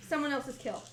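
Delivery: high, loud squeaky voice. Acted. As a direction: squeak out the answer proudly. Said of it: "squeaky voice".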